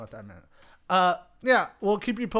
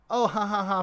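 mock laugh; 5 semitones higher, 3 dB louder, faster than usual. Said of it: "funny type of".

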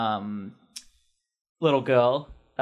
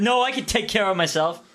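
put-on teenage hero voice; 8 semitones higher than usual.

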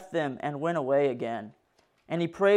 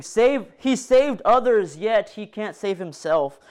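higher, louder jeering voice; mocking crowd; 4 semitones higher, 5 dB louder than usual. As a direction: sneer it like a taunting onlooker. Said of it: "the people began to mock him by saying".

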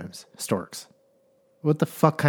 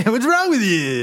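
laughing; 8 semitones higher than usual. Real, not acted. Laughing at co-host's odd voice.

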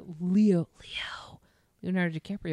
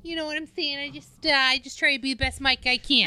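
mic persona; 7 semitones higher, 4 dB louder than usual. Pretend. Hammed-up mic persona, louder, higher.

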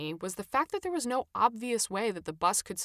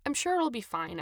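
soothingly; 4 semitones higher than usual. Acted. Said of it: "Adam said soothingly".

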